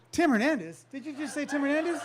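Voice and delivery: high, loud, laughing disbelief; excited recognition. Retold or imitated. Friend overhearing the name on the phone, excited. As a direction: leap on the name you know.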